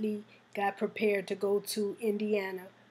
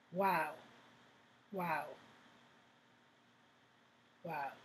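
awed wow; 5 semitones lower, 10 dB quieter, slower than usual. Real, not acted. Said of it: "that was really".

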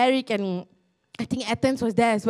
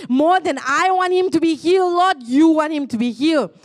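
louder pleading prayer; 3 semitones higher, 5 dB louder than usual. Retold or imitated. Speaker prays over the man with back pain, louder and pleading.

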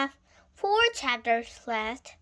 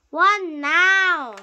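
loud, raised, impatient question; exasperated shout; 6 semitones higher, 11 dB louder than usual. A narrator's reading. Boy stopped on his way out, exasperated shout. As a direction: shout back, fed up with delays.

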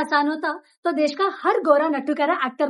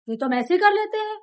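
higher-pitched voice for the aspirant's thought; overconfident beginner; 7 semitones higher than usual. Acted. Mentor voices what the aspiring actor thinks, lightly cocky. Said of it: "अब तुम ये सोच रहे होगे".

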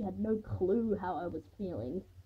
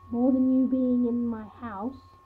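sarcastic; 3 semitones higher, 9 dB louder, slower than usual. A narrator's reading. Franny sarcastic retort.

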